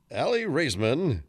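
slow, drawn-out announcer read. Pretend. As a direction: announce the name like a host. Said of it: "in your best announcer voice".

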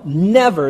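never said firmly and loud; a flat, final never. Shown as a demonstration. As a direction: slam down the word never. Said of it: "There's no qualifier".

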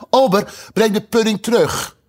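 high, loud call across the hall; called out loudly. Acted. Alice calling to the waiter across the table, loud and high. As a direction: call the waiter back, experimenting. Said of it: "riep ze luid".

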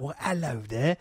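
hint of a put-on hard-man voice; Vinnie Jones. Podcaster showing off the actor's fun voice, Vinnie Jones impression. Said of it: "You think about that kind of thing".

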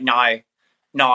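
"No" as a mocked Aussie vowel; mock Aussie accent. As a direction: mimic people mocking Australian speech. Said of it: "people do it mocking of Aussie".

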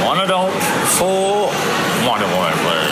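ordering a ticket out of the corner of the mouth; side-mouth talk. Shown as a demonstration. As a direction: keep the lips half shut and mumble sideways. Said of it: "talking out the side of my mouth".

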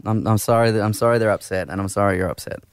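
low, meek, grovelling sorry; grovelling apology. Acted. Host grovels to his wife on air, meek and pleading. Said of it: "your grovelling".

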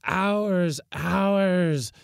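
high, insistent group shriek; high, long-held cries; shrieking chorus. A narrator's reading. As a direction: shriek it like a mob of spirits. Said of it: "shrieked the chorus".

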